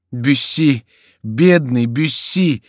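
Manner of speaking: high, slow despairing wail; despairing cry. A narrator's reading. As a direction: mourn a friend out loud. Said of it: "кричал Риберак с отчаянием".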